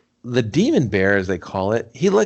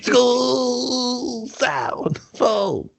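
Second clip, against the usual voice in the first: laughing repeat; 12 semitones higher, much slower than usual. Real, not acted.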